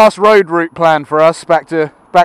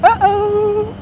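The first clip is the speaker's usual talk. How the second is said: mock alarm; 14 semitones higher, 3 dB louder, much slower than usual. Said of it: "I'm like".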